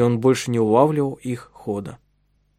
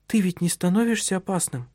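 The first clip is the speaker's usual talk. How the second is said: frightened; 7 semitones higher, 4 dB quieter than usual. Acted. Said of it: "испуганно уставилась".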